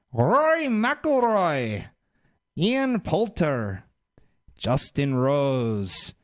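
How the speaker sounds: slow, swooping, drawn-out name call; mock announcer. Host introducing European team in hammed-up announcer voice. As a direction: stretch each name out like an arena introduction.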